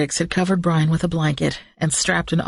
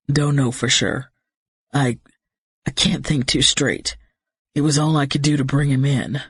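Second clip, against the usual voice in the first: shaken man; 2 semitones lower than usual. Acted. Shaken pilot voice.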